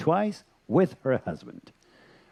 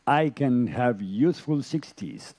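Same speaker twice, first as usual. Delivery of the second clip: slow, deliberate affirmation; slower than usual. Shown as a demonstration. Yoga teacher showing a realistic wish, slow and deliberate. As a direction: say it slowly as a wish you mean. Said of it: "I can ask and repeat".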